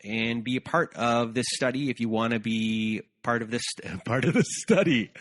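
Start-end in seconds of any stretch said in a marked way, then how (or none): 3.8-5.1 laughing through the words; giggling while correcting herself. Real, not acted. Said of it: "I'm having a tough time getting my words out".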